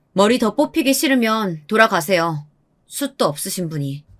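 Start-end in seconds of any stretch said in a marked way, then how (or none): none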